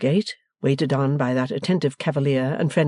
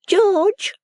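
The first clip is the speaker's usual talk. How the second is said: high, loud warning call; sepulchral warning; 5 dB louder than usual. A narrator's reading. Miss Lavvy to her suitor, sepulchral warning. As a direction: warn him with one pointed word. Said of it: "in a sepulchral warning voice".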